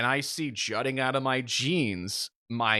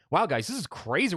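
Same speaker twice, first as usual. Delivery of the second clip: higher, swooping amazed chatter; mock giddy wonder; 4 semitones higher than usual. Injured man chatting to front seats, mock-giddy amazement. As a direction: play someone high on adrenaline.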